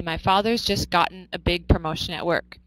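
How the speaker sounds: the sentence read evenly with "gotten" in it; American version. Shown as a demonstration. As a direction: model the American wording plainly. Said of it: "in American English, we would say".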